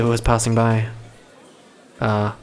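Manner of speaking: ordinary delivery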